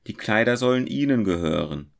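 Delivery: mildly moved. A narrator's reading. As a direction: offer them gladly. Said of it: "sprach er bewegt".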